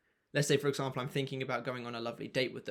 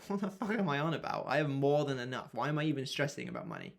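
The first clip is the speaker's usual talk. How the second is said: mock arrogance. Shown as a demonstration. Coach demoing dismissive self-talk about money worries. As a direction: brush off money worry with a cocky scoff. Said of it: "that there was a demonstration of what I will literally do".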